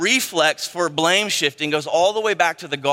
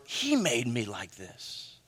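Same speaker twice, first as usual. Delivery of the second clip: much softer and lower grumble; a quiet mock grievance; muttered complaint; 7 semitones lower, 11 dB quieter, slower than usual. Someone blaming God, muttered under the breath.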